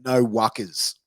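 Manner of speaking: "no wuckers" in a slight Australian accent; Australian term. Shown as a demonstration. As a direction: announce "no wuckers" as the quiz word, lightly Australian. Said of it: "another one is".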